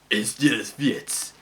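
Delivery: slow, lightly put-on Eastern European accent; a hint of an Eastern European accent. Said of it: "in that Eastern European accent".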